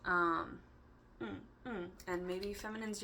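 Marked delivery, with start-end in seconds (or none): none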